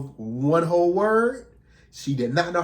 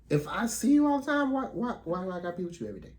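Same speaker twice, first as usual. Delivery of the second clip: mocking whine; 6 semitones higher, much faster than usual. Mocking the partner's complaint.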